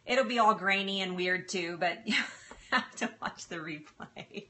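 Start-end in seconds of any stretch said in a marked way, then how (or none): 2.7-4.5 slow, soft, laughing through the words. Real, not acted. To viewers about her bad connection, laughing softly. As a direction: giggle it out slowly, quieter.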